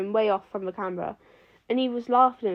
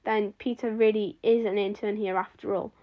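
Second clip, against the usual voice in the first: usual speaking voice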